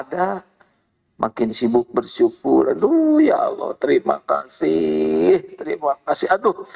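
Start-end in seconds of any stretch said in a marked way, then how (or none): 2.7-6.6 grateful sigh of thanks. Acted. Acting a grateful believer's prayer.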